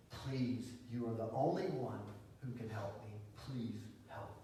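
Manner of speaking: soft, low plea, with pauses; pleading. Acted. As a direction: plead gently, voice sinking to a hush. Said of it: "falls on her knees before Jesus and says".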